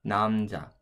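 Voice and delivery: Namja said as Korean namja; Korean word. Shown as a demonstration. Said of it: "the second syllable would look like this".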